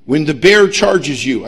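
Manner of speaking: slow, deliberate mock reading of instructions; stretched-out instruction reading; reading instructions aloud. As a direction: read it out word by word, pointedly. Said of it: "I'm reading the instructions".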